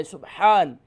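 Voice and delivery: سبحان said with a clear ح from mid-throat; سبحان with a crisp breathy ح; سبحان pronounced with a proper ح; correct ح. Shown as a demonstration. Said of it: "بلکہ سبحان ہے".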